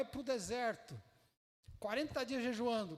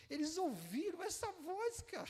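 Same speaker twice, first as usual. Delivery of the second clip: higher, slow, laughing through the words; laughing in awe; 7 semitones higher than usual. Real, not acted. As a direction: marvel at it with a laugh. Marvels, laughing. (rindo, maravilhado, mais agudo e lento)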